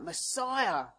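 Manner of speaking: insistent appeal, each phrase pressing harder; calling out. Retold or imitated. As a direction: imitate the beggar begging to be noticed. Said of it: "He's calling out".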